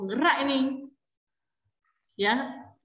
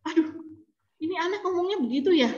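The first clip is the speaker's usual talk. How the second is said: higher, mildly shocked exclamation; kaget; 6 semitones higher, faster than usual. Retold or imitated. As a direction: react aghast, pitch raised. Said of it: "Saya sampai kaget". (kaget, nada agak tinggi)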